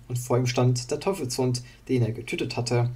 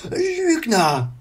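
high, loud angry scream; furious shout; 12 semitones higher, 6 dB louder than usual. Acted. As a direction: shout while striking. Wandel swings at Illidan. (wütender Schrei)

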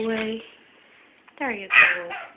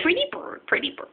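parakeet chatter; 7 semitones higher, 3 dB quieter than usual. Real, not acted. Bird repeats pet phrase.

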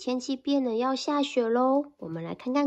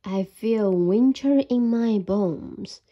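sleepy bear voice; 3 semitones lower, 4 dB louder, slower than usual. Acted.

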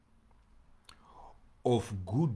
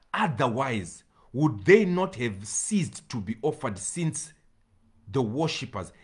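forceful scripture reading; 2 semitones higher, 3 dB louder than usual. Real, not acted.

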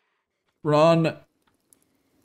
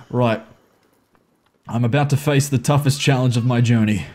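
normal talking voice

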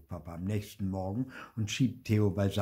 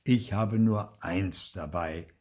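sighing; 6 dB louder, slower than usual. Acted. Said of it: "seufzt Opa".

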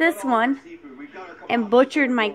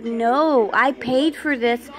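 upset protest. Retold or imitated. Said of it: "I started crying".

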